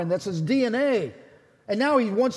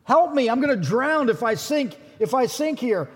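panicked cry for help; 4 semitones higher than usual. Retold or imitated. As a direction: shout for rescue while sinking. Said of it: "He's going".

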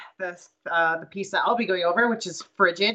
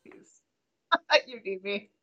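begging an ex back; 6 dB quieter, faster than usual. Pretend. Playful begging partner to stay.

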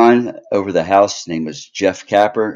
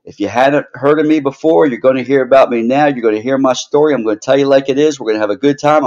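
gloating wrestling manager; 5 semitones higher than usual. Acted. Heel manager cuts a promo.

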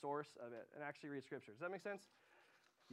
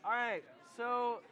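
loud, high, drawn-out call to the room; 7 semitones higher, 10 dB louder, slower than usual. Real, not acted. Speaker regathers the room after discussion, calling out. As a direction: raise your voice slowly over the chatter.

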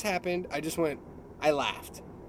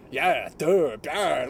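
mock duh duh; 4 dB louder, much slower than usual. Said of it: "I just made, physically made that sound".

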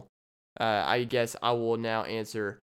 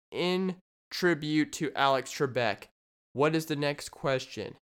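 Jeopardy host. Acted. Host introduces the next question, game-show style. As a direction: present it like a quiz host. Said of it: "Jeopardy style".

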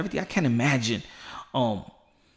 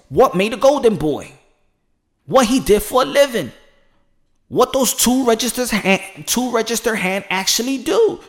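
raised, pumped-up announcer call; say it with your chest; 6 semitones higher than usual. Shown as a demonstration. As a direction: proclaim it like a fight promo. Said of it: "You gotta say it with your chest".

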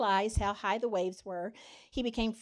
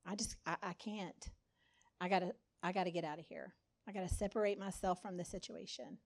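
panicked Peter; 3 semitones lower, 8 dB quieter, faster than usual. Retold or imitated. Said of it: "He's like".

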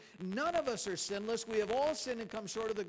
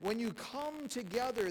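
"come together" slow and raised; stress on "come together"; 2 semitones higher, slower than usual. Shown as a demonstration. Preacher points congregation to key words, stressing "come together". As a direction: draw out "come together" with weight. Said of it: "I'll emphasize the word".

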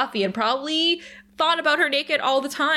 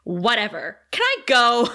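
bored. Retold or imitated. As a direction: act bored and itching to leave. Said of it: "Cordelia is so bored".

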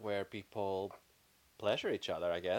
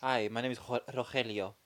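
Spanish pronunciation. Shown as a demonstration. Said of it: "do you want me to do in Spanish?".

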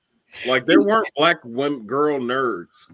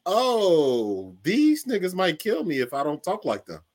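mock scared; 5 semitones higher than usual. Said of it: "you be like".

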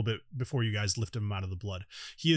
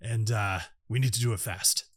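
slow, heavy treant voice; slow deep creature voice; 2 semitones lower, 3 dB louder than usual. Acted. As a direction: drag it out like a tree. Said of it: "he's got a different voice".

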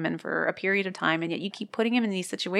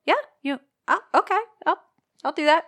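eager creep voice; 10 semitones higher, 5 dB louder, faster than usual. Retold or imitated. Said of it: "and then he says, like".

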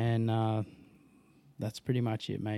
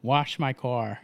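forced American accent; much slower than usual. Shown as a demonstration. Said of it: "No, that was bad".

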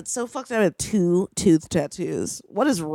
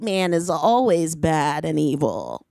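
solemn proclamation; 2 semitones lower, much slower than usual. Pretend. Mock ominous closing statement.

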